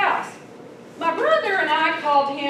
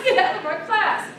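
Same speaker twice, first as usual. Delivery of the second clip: teacher repeating; 6 semitones higher, 3 dB louder, faster than usual. Retold or imitated. Teacher repeating her order to the class clown, milder mock yell. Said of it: "The teacher was like".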